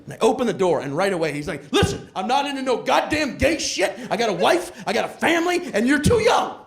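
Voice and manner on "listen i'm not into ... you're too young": mildly heated, rising outburst; indignant protest. Acted. Delivery guy sets the tenant straight, mildly indignant. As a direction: set him straight, getting more worked up.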